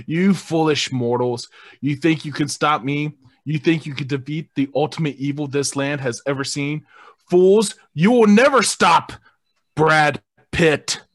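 mock the heroes like a dark overlord; evil villain voice. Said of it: "is the evil and vile creature".

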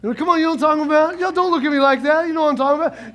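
fast cocky taunt from behind big brother; kid taunting the bully. Retold or imitated. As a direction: tease the bully, safe and smug. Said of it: "and you're like".

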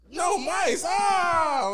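high, loud mock panic cry; hammed-up panic over no mice. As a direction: squeal like the world is ending. Panicking at the pet store, retold.

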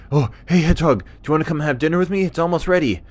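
high, loud, quick dingo voice; chirpy high-pitched animal invite; friendly dingo, inviting. Acted. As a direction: call out an eager dinner invitation.

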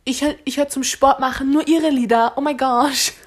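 giddy fangirl. Retold or imitated. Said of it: "So bin ich".

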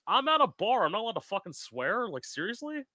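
incredulous, offended protest; indignant outrage. Retold or imitated. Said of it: "I'm like".

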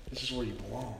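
hushed, low echo of the welcome; soft reassurance. Retold or imitated. Father to returning son at his welcome home, softly reassuring. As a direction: let it drop soft, as a private assurance.

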